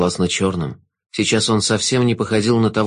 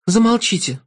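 angry outburst; 11 semitones higher than usual. Acted. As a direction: cut him off angrily. Girl cuts off the Jester.

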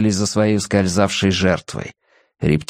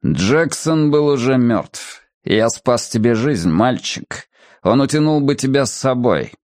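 stony voice; 2 semitones higher than usual. Acted. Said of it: "каменным голосом от человека с каменным сердцем".

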